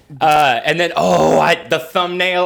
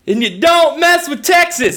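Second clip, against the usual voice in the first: higher, louder punchline delivery; mock announcer slogan; 10 semitones higher, 3 dB louder than usual. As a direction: sell it like a cheesy ad tagline. Mock slogan before slime gag.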